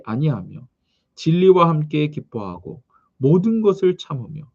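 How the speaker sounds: measured, solemn Bible recitation; scripture reading. Acted. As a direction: read the verses out in even, cadenced phrases. Reads scripture to congregation. (성경 봉독하듯 또박또박)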